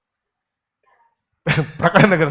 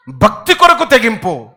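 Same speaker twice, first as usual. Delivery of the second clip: భక్తి కొరకు తెగింపు loud, slow; 3 semitones higher, 4 dB louder than usual. Real, not acted. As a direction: declare it. Repeat loud vs soft. (గట్టిగా నెమ్మదిగా)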